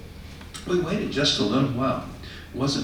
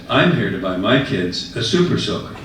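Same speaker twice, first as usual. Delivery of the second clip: laughing. Retold or imitated. Teller laughing at punchline.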